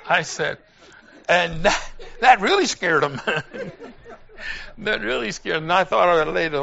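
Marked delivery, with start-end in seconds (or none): 2.2-3.7 laughing. Real, not acted. Joke scared the flyer.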